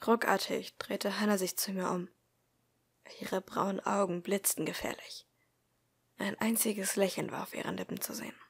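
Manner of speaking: measured first-person audiobook narration; story narration. A narrator's reading. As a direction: read the story aloud, calmly paced. Reads story aloud.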